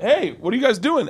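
high-pitched call to friends behind. Retold or imitated. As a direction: call back to them, puzzled. Calling back to stopped joggers.

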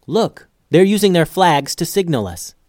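keyed-up lookout report; alert calling out. Acted. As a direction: alert your crewmates to what you see. Lookout pointing out ship's signals.

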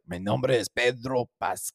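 put-on slow, careful Spanish accent. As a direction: say it like a Chilean actor. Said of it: "he was just like".

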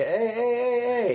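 imitated high-pitched interjection; protesting bystander. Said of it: "somebody would have been like".

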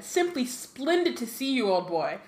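high, hammed-up posh gush; mock posh twin. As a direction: play the teasing twin, grandly. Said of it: "said Fred".

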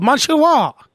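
put-on Asian pronunciation; imitated Asian accent. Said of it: "ripped it into an Asian accent".

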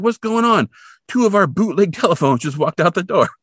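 high, loud imitation of a flustered boss; indignant outburst. Boss complaining to Kolchak about the phones, indignant.

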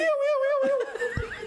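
very high siren whoops; imitated little horn. Shown as a demonstration. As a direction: do the little siren noise on request. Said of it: "Como que foi a buzininha?".

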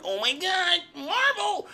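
very high gushing squeal; mocking a super hype Marvel fan, very high; mock fanboy. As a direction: gush like an over-hyped fan. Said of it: "where I'm like".

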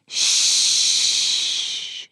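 a secret whispered shh; whispered shush. Acted. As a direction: hush them gently. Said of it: "it whispered".

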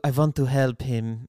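slow, lightly done Werner Herzog voice; a hint of Herzog, earnest and slow; Werner Herzog impression. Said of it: "you gotta start like Werner Herzog".

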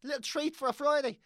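high, loud sing-song shop lady; shop woman's chirp. Retold or imitated. Shop woman chirping at him over his loaf, mock sing-song. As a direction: chirp it like a cheery shopkeeper. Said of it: "the woman in the shop said to me".

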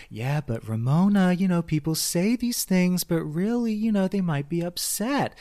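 put-on slow, syrupy talking-down, as to a child; placating, patronizing. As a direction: soothe her like a toddler, a little slow. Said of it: "placating, patronizing tone of voice".

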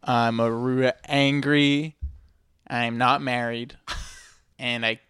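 slow, halting dramatic recital; dramatic poem reading. Shown as a demonstration. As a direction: read it slow with big pauses. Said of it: "It says".

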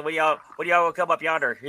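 lightly put-on Southern hillbilly accent. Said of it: "sound like a hillbilly like this".

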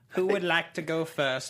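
slow, booming movie trailer voice. Shown as a demonstration. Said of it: "let's do our action movie tagline".

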